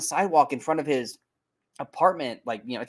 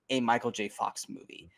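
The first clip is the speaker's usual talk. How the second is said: breathy whisper, much softer; whispered aside; 4 semitones lower, 6 dB quieter than usual. Real, not acted. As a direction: drop to a whisper for the last words. Whispered aside about the film.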